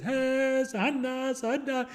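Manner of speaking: high, drawn-out mock-African call; imitated African accent. Coaching his African friend for the PA, mock-African accent call. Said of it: "with your accent, what you should say".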